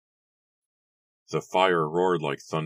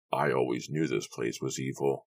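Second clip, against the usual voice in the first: bearded man; 3 semitones lower than usual. Acted. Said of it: "the bearded man declared".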